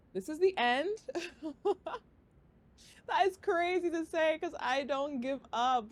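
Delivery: fighting back sobs as she says it; crying. Real, not acted. Announcing the end of her podcast to viewers, tearful. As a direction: voice breaking into tears. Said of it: "I'm getting emotional".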